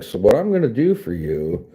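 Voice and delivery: high fast put-on voice for "ten dollars"; mock stingy donor. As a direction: talk down to him like a smug dealmaker. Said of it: "be like".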